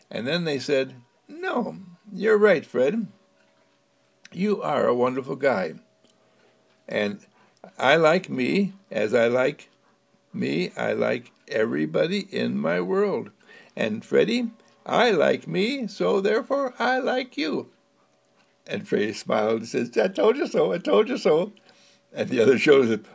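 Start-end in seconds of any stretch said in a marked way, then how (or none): 1.3-17.7 put-on higher, sing-song kid voices; sweetly giving in to their brother; storybook children, lightly voiced; children's voice. Children agree with Fred. 20.0-21.5 higher, sing-song told you so; a kid crowing at his siblings; lightly voiced smug child; gloating boy. Fred gloats.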